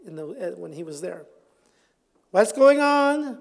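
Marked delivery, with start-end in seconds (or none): 2.3-3.4 blind man asking. Acted. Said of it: "the blind man does".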